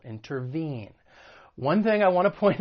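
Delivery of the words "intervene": "intervene" with the weight on VENE; in-ter-VENE, falling at the end; stress on third syllable. Shown as a demonstration. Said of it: "The stress is on that third syllable".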